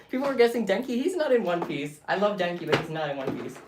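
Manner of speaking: excited protest. Real, not acted. Correcting chat, loud and high.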